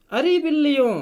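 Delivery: monkey shouting. Acted. Monkey shouting at the quarrelling cats, loud call. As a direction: shout out to stop the fight. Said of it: "बंदर जोर से चिल्लाया".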